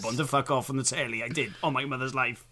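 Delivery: laughing, earnest mock protest; school liar insisting. Liar swearing on his mother's life to classmates. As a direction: keep swearing it's true through laughs.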